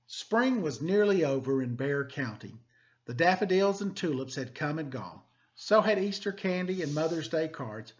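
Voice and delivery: lively, expressive picture-book reading; storybook narration for students; reading to children. Acted. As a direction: read it like story time for the class. Teacher reads picture book aloud.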